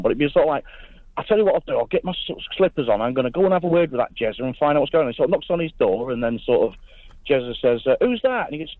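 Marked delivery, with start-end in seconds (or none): 1.2-5.1 a northerner's rough go at southern English; attempted southern accent. Lincolnshire caller imitating the host's region, attempted southern accent. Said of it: "do my best for a, l-, a southern accent". 8.0-8.5 high-pitched attempt at southern English; mock southern accent. Caller plays Jezza at the door, high mock southern accent. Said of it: "a southern accent where you come from".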